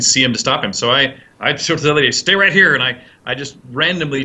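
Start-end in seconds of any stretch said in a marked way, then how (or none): 1.9-2.7 calling out. Retold or imitated. Calling out to stop the lady.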